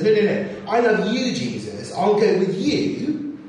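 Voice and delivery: a disciple bursting to prove his love; eager protest. Acted.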